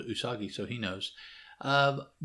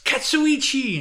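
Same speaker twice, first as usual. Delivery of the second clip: much higher and louder, exasperated shout; yelling; 8 dB louder than usual. Retold or imitated. Usagi shouting the name at the servant. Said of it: "and he yells".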